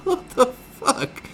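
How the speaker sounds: slow, loud stage-whisper of shock; breathy, drawn-out mock disbelief; bewildered. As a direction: gasp it out in aghast bewilderment. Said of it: "bewildered, you're like".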